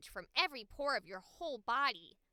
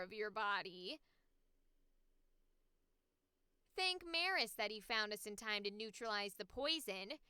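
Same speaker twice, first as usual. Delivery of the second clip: snarky, lower-pitched character read; 4 semitones lower than usual. Acted. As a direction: needle a friend over their blunder, less childlike. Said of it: "I tried to go a bit more, like, snarky".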